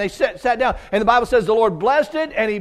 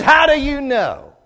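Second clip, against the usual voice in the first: put-on old deacon's challenge; 8 semitones higher, 7 dB louder, slower than usual. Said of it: "He says".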